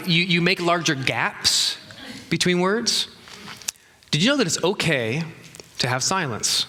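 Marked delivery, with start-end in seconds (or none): 0.1-3.1 slow demo. Shown as a demonstration. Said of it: "so you slow down the".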